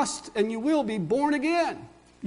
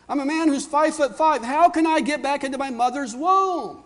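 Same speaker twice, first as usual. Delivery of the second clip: a lightly voiced confused man, pitch climbing higher; a puzzled Nicodemus; 5 semitones higher than usual. Preacher voicing Nicodemus's bewildered questions to Jesus, rising pleading. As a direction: plead to understand, growing more baffled. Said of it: "And he says".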